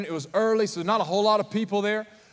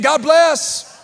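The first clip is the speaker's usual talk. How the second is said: loud, high fervent call; louder, with conviction; 6 semitones higher, 8 dB louder than usual. Real, not acted. Pastor urging the congregation to answer louder. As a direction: say it like you mean it. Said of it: "say it like you mean it".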